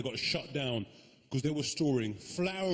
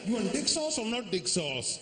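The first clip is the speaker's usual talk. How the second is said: put-on high, rising accented question; accented waiter, pitched way up; waiter's Asian accent; 7 semitones higher than usual. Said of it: "The guy goes to me".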